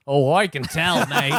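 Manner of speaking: knowing Australian quip, half-laughed; mock Australian accent. Tour guide tapping the writer's nose, in a chuckling Australian accent. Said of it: "with my great Australian accent".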